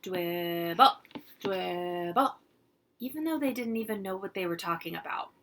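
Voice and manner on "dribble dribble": put-on loud toddler chant; kids shouting. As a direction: shout it like excited little kids. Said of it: "they started to shout".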